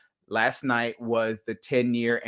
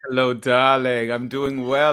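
femme fatale; 5 dB louder than usual. Pretend. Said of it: "I had to give you the full fantasy, darling".

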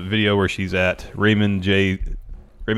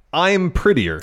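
shrill catty stepsister; 11 semitones higher, 5 dB louder, slower than usual. Retold or imitated. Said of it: "Hit an".

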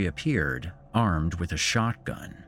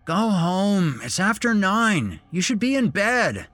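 high sharp scolding voice; sharp reply; 12 semitones higher, 5 dB louder than usual. A narrator's reading. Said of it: "replied with asperity".

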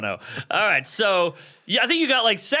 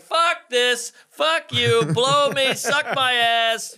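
angry ranting; 5 semitones higher, slower than usual. Retold or imitated. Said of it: "you go on and you're like".

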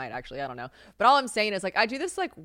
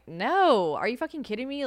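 higher, incredulous brush-off; emphatic denial; 6 semitones higher, 3 dB louder than usual. Retold or imitated. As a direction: scoff at the very idea. Dismissing fans' worry.

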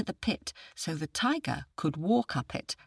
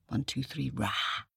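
quiet practice roar; 6 dB quieter than usual. Shown as a demonstration. Storyteller shows listeners the roar, softly. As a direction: keep it down, a tiny roar.

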